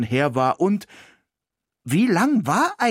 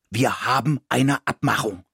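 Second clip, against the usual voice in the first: 1 growled. Acted. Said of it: "knurrte Ismir".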